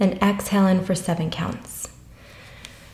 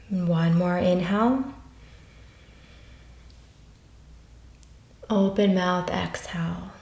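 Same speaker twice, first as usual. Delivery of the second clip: calm guided breathing voice with long pauses; unhurried meditation teacher, easing softer at the ends of phrases; 4 dB quieter than usual. Acted. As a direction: lead listeners gently through each breath, counting with space between numbers.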